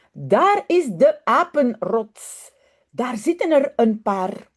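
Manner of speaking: lively storybook reading in Dutch; story narration. Acted. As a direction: read it like a bedtime story for children. Reads Dutch children's story aloud.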